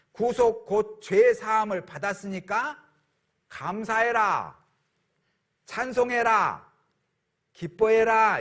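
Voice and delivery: slow, rising proclamation; proclaiming scripture. Shown as a demonstration. Pastor proclaiming the verse commands thanks and praise, rising. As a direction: proclaim it joyfully, word by word. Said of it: "이렇게 말씀하시는 거예요".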